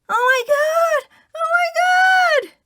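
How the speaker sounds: high, loud panicked scream. Acted. Woman running from the clinic office, screaming in shock. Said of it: "ran out ... screaming".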